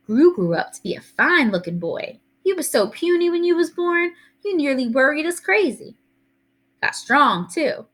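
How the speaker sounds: high, lilting granny voice, admiring; doting Southern grandma. Acted. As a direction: fuss fondly over the grown grandson.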